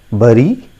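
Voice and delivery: "Bury" as BUH-ree, rising; wrong pronunciation. Shown as a demonstration. Teacher showing learners another mistake, "Bury" as BUH-ree. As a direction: say "Bury" with an uh vowel. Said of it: "That is a wrong pronunciation".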